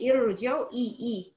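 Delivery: ارجعوا opened on "i", then إي isolated; hamza with kasra. Shown as a demonstration. Teacher points out the kasra on hamza, "i" onset. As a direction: pick out the opening إي of ارجعوا. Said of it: "نطقنا همزة الوصل بالكسر".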